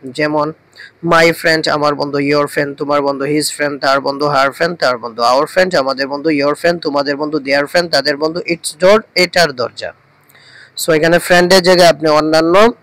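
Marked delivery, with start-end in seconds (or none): 1.1-9.9 fluent rote recitation. Shown as a demonstration. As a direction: run the pairs together without pausing. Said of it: "এগুলো ঠোঁটস্থ হয়ে যাবে". (মুখস্থ পড়ার মতো একটানা)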